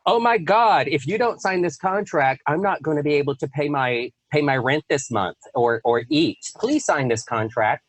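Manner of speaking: mock-panicked begging, starting high and easing down; desperate pleading. Broke entrepreneur begging a client to sign, acted desperate pleading. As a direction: plead like a desperate seller, lightly hammed-up.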